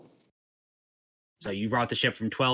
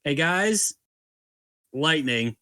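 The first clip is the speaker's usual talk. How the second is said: higher, louder mock yell to shipmates; 5 semitones higher, 4 dB louder, much slower than usual. Game master relays Seven's warning below deck, yelling out. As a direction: call out a warning, pitched up. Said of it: "Seven yell out".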